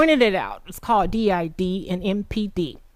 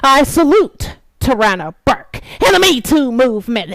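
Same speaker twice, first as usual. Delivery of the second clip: choked-up salute; 5 semitones higher, 6 dB louder than usual. Real, not acted. Emotional salute.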